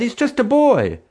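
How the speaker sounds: high, loud declaration; declaring. A narrator's reading. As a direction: declare it firmly. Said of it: "someone declared".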